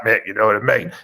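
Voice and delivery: lightly voiced local villain; Thornaby Joker voice. Batman mimics his local nemesis, lightly voiced. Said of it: "he sort of talks like that".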